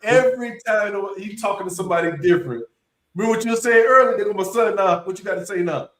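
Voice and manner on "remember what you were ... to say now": dad calling out his son's arrival, pitched higher; higher, teasing dad voice; boastful dad. Retold or imitated. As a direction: show off the son to the room. Dad taunting again.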